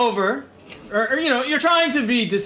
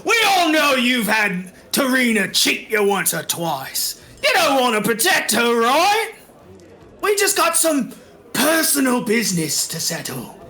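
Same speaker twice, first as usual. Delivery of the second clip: lightly voiced tavern tough talking to the room; game character with an accent. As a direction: put on a pushy crook's patter. Game master plays a rough character.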